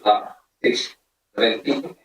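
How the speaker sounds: ordinary talk, nothing marked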